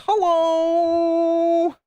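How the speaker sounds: high, loud Irish hello; Irish accent. Retold or imitated. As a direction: read it in a high Irish lilt. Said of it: "came out as Irish as well".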